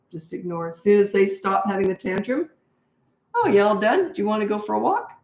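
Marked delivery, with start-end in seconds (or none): 3.3-5.1 light, higher-pitched parent voice; friendly re-engaging parent. Retold or imitated. Parent to toddler once tantrum is over, friendly invitation. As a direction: offer it sweetly, as if nothing happened.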